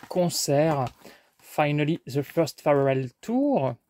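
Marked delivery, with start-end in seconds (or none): 1.4-3.7 title read with a self-mocking English accent. Shown as a demonstration. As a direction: show off a slightly exaggerated English accent. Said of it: "Ne jalousez pas mon accent anglais".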